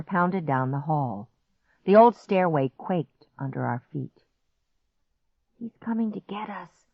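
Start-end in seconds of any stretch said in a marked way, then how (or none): 5.6-6.8 hushed, higher, fearful voice; frightened whisper. A narrator's reading. Boy frozen on the stairs, whispering. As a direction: whisper it in dread. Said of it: "Clark whispered".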